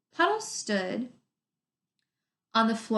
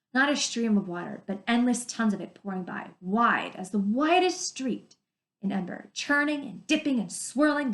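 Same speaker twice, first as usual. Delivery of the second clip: story reading aloud. Acted. Teacher reading the river passage to her class, vivid story reading. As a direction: paint the roaring river for the kids.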